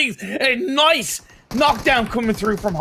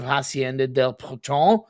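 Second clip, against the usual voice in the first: Spanish accent; 5 semitones lower than usual. Real, not acted. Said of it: "Don't laugh at my terrible Spanish accent".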